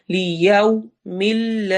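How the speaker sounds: slow, rounded yau; Quran recitation. Shown as a demonstration. Teacher reciting the corrected word, slow. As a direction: round the lips fully on yau. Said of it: "होंठ पूरे proper गोल होंगे".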